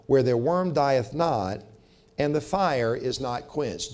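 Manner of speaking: measured, solemn reading of the verses; scripture reading. Acted. Preacher reading the Bible verses to the congregation, solemn.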